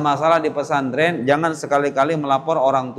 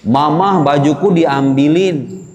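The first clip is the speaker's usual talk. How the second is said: louder, slow pleading whine; whiny child; 4 dB louder, slower than usual. Retold or imitated. Santri tattling to mother about clothes, slow loud whine. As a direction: tattle like a wronged kid.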